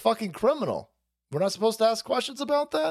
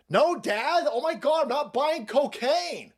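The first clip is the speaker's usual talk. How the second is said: mock exasperated son; 6 semitones higher, slower than usual.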